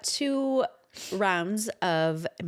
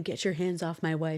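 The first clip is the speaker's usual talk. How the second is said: protective husband; 4 semitones lower, 4 dB quieter than usual. Retold or imitated. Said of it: "It's giving".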